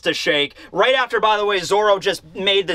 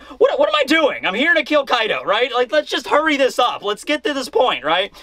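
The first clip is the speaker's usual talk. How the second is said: impatient; 5 semitones higher than usual. Acted. Acting out Zoro's impatience.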